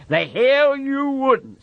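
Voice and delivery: mock him; sneering rabbit. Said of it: "said the rabbit".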